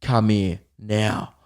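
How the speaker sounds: slow, low mock command; imitating the boyfriend's slow order. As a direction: lay down the order slowly. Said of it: "And he's like".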